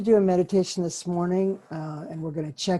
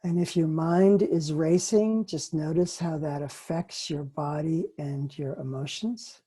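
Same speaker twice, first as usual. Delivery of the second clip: guided meditation. Acted. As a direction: gently guide listeners to notice.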